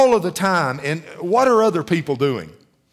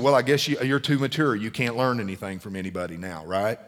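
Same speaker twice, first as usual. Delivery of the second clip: mild sarcastic rebuke; 5 semitones lower, 4 dB quieter than usual. Retold or imitated. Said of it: "he's talking to me, he said".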